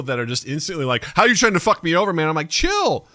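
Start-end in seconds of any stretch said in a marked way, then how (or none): 1.2-2.3 imitating an instantly suspicious person, pitched up; retold indignant challenge; mock accusation. Imitating instantly distrustful people. 2.5-3.1 very high, falling "chill"; acted-out high, exasperated appeal; high-pitched pleading. Acting out calming a suspicious person.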